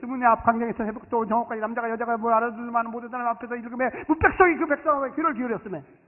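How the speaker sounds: very fast, rattled-off read-through. Demonstrating how the passage used to be read aloud, very fast reading. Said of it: "빠르게 빠르게 막 그냥 초고속으로 한번 예를 들어서 이렇게 한 거예요".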